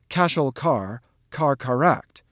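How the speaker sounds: "cashel car, car caract" in two groups of three syllables; divided in two. Shown as a demonstration. Teacher showing how to practice "cashel car, car caract", divided into a pair. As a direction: split "cashel car" from "car caract" with a short break. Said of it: "practice this is by dividing it into a pair".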